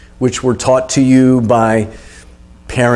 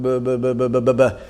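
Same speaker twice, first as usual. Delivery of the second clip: weak mock punching grunts; 3 semitones lower, 5 dB quieter than usual. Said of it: "they're just going".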